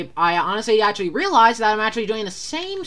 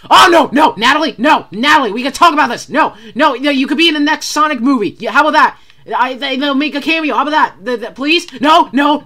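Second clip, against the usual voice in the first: higher, louder desperate bargaining; pleading; 4 semitones higher, 4 dB louder than usual. Real, not acted. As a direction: try to talk the monster out of it. Bargaining with monster.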